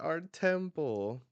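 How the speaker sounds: high, drawn-out mock dismay; loud, slow wail of acted alarm; freaking out. Temple folk watch it crumbling, freaking out. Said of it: "like, freaking out".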